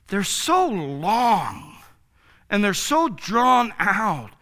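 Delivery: drawn-out, rising intensity; over the top. Shown as a demonstration. Preacher mocking movie exorcisms, hammed-up. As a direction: ham up the drama of exorcisms. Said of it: "that was a little over the top".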